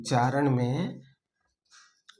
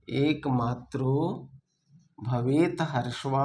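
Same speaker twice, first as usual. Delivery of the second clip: slow dictation. Shown as a demonstration. Teacher dictating the verse for students to copy, slowly. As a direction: spell it out slowly so they can write. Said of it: "repeats the verse for dictation".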